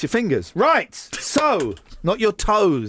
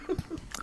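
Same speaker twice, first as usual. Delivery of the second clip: high, soft laugh; quiet giggle after teasing; 14 semitones higher, 15 dB quieter than usual. Real, not acted. Laughs at own tease.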